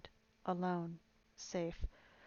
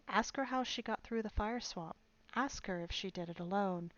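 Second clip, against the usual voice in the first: angry denunciation. Acted. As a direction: rail at her before the whole crowd. Old woman denounces queen to crowd.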